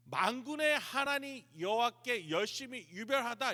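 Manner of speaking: sarcastic. Acted. Elijah needles God with his own zeal, sarcastic. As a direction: throw the pious words back with a jab. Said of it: "지금 하나님 비꼬고 있는 거예요".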